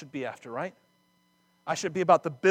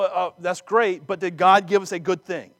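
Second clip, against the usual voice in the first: mock skeptic; 3 semitones higher, 6 dB louder than usual. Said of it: "to that we go".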